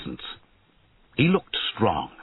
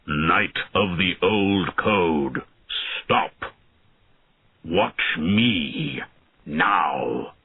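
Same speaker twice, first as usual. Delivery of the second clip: mild shout; much slower than usual. Acted. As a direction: halt the knight with a grave command. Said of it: "But the dragon shouted".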